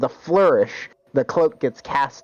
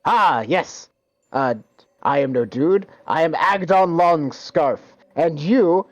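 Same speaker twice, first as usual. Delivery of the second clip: lightly higher boastful brigand; 5 semitones higher than usual. Acted. Brigand introduces himself to the party, boastful. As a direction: puff up and introduce yourself grandly. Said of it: "he goes".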